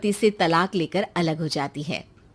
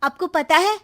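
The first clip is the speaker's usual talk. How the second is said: higher, slow, sly daughter tattling to mom; scheming daughter; 6 semitones higher, 4 dB louder than usual. Acted. Srishti tells her mother about Sheenu, sly and slow. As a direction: drip it out slowly, stirring trouble.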